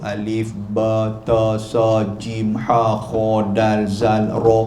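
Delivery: Alif, ba, ta sounded out slowly and low; reciting Arabic letters slowly. Shown as a demonstration. Preacher to congregation, reciting alphabet slowly. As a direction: chant the alphabet like a child at Quran class. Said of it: "suruh sebut betul-betul".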